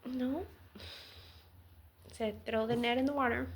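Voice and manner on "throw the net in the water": gentle, kind instruction, softer and fast; compassionate. Retold or imitated. Jesus gently telling Simon to throw the net, compassionately. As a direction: kindly invite him to throw the net. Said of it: "He said it in a compassionate way".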